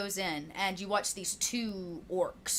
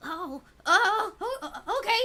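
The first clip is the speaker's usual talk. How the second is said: much higher, louder nervous yelps; startled goblin; 12 semitones higher, 8 dB louder, slower than usual. Acted. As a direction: yelp like a goblin scrambling to obey. Goblin jumps to obey.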